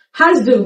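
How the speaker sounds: Hast du said as two clear words; careful Hast du; full form. Shown as a demonstration. Teacher gives the textbook Hast du.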